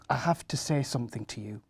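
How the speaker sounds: put-on quick hushed whisper to the children; a mum whispering before bad news. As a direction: lean in and whisper it fast. Mum breaking bad news softly.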